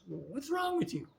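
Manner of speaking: high, incredulous mother's retort; exasperated mother. Retold or imitated. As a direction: fire it back, baffled and put out. Mother answers his outburst.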